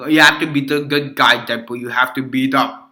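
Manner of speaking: lightly put-on Russian accent; amateur Russian accent, earnest lecture; Colossus, Russian accent. Hero lecturing Deadpool on being good, rough Russian accent. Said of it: "Colossus is like".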